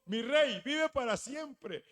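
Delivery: loud, proclaiming hail to the king; loud respectful hail. Acted. Daniel hailing the king from the pit, loud and reverent.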